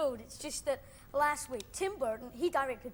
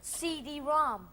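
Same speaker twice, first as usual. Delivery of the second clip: slowly, word by word; slow repeat; much slower than usual. Shown as a demonstration. Repeating the term slowly to a confused host. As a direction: spell it out slowly for him.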